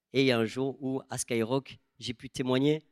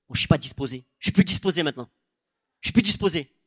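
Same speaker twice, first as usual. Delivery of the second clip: higher, louder, huffy mock retort; imitating a sulky woman; 3 semitones higher, 3 dB louder, faster than usual. Preacher mimics the angry woman refusing prayer, huffy. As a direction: throw it back like an offended woman. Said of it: "elle m'a parlé comme ça".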